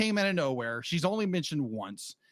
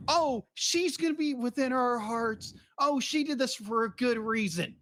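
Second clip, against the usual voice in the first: mock sentimental fan; 7 semitones higher than usual. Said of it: "everyone's be like".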